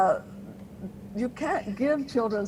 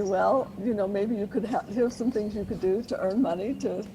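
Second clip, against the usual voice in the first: kind and firm. Retold or imitated. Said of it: "in a nice, kind, and firm way".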